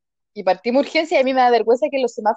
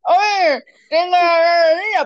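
slow, higher, mangled words round a stuck spoon; garbled speech; 5 semitones higher, 3 dB louder, much slower than usual. Retold or imitated. Girl going to her dad with a spoon stuck, mangled and slow. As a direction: speak as if a spoon blocks your mouth. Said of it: "no podía hablar porque tenía la cuchara".

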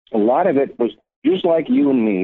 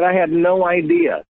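slow, much higher, amazed imitation; excited Keith; 9 semitones higher than usual. Keith telling Robert he had no idea the band was so good: slow, amazed, high voice. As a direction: let the wonder stretch out, pitched high. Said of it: "he called me so excited".

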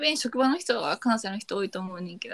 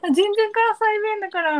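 high, slow and loud quote; imitated salon attendant; 13 semitones higher, 5 dB louder than usual. Salon attendant pointing out her accent, imitated high and drawn-out. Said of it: "みたいな言われてさ".

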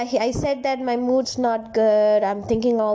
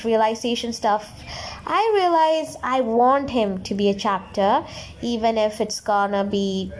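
reading her notes aloud. Real, not acted. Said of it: "I'm actually reading what I wrote on my notepad".

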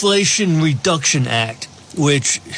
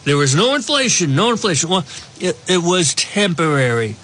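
stuffy nose. Real, not acted. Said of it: "so if I sound a little stuffy, I am".

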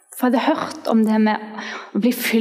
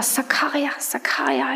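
whispered tongues; 2 semitones higher, 4 dB quieter than usual. Retold or imitated. Teen filled with the Spirit, first whispered word. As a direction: whisper the strange word in awe.

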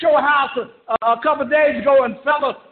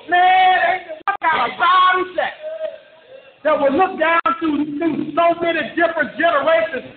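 higher, building preacher cry; fiery preaching; 3 semitones higher than usual. Acted. Preacher on the call rousing believers with fiery preaching. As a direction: preach it up to a shout.

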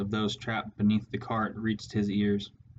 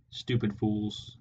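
slow contemptuous snarl; slower than usual. A narrator's reading. Warlord snarling at his dead henchrats. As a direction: spit the words out with scorn. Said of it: "snarled Clooney".

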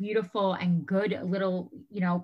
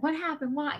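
put-on higher, curious little-kid voice; mock toddler questions; 8 semitones higher than usual. Mom imitating her toddler asking what happened, high and curious. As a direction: ask like a worried two-year-old.

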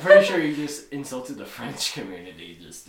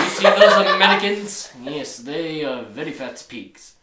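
put-on French accent; 5 semitones lower than usual. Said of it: "Is that your French accent?".

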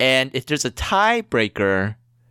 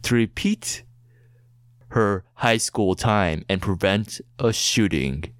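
movie trailer voice; 3 semitones lower than usual. Acted. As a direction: build it up like an epic blockbuster trailer. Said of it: "in a movie trailer voice".

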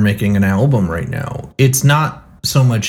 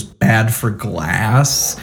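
very slow, mocking echo as a question; much slower than usual. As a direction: drag it back at him, mocking, very slow. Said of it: "kinda mocking him goes".

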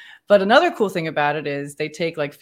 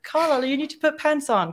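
higher-pitched, badly faked Australian accent; terrible Australian accent; 10 semitones higher than usual. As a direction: imitate an Australian friend with a poor accent. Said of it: "'cause she's Australian. That was a terrible accent".

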